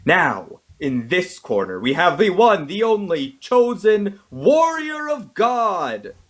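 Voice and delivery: announcer hyping the fighters; building ring announcer intro; wrestling promo. Acted. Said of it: "I wanna do it in a wrestler voice".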